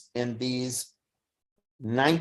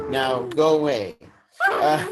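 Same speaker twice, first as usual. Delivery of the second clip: laughing. Real, not acted. Laughs off his emotion.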